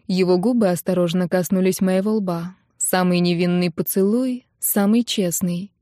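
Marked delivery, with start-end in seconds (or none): none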